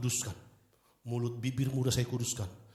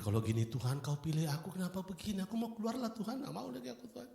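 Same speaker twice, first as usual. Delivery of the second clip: despairing prayer; 7 semitones higher, 5 dB quieter than usual. Retold or imitated. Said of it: "Saya kepikir".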